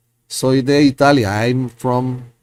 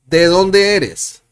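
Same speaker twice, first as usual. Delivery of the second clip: ¿De dónde eres? slow, high and loud; slow model question; 7 semitones higher, 6 dB louder, slower than usual. Shown as a demonstration. Teacher slowly modeling the question for students. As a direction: spell out the question for learners. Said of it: "teacher models question slowly".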